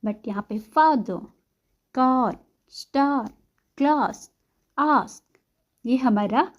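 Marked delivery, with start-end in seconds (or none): 0.6-5.2 long throaty "ah" in "father, car, star, class, ask". Shown as a demonstration. Teacher contrasting these with short apple, long "ah". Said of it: "long pronunciation है".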